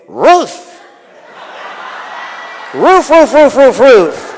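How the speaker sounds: loud high woof-like barks; dog barking the answer, loud and high. Acted. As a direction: bark the word roof like a dog.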